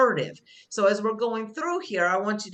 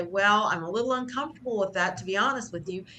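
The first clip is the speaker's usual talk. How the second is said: nice assertive way. Shown as a demonstration. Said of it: "saying it in a nice way".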